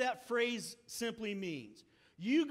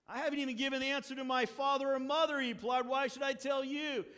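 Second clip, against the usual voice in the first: exasperated; 5 semitones higher, 5 dB louder, faster than usual. Acted. Samson's annoyed reply.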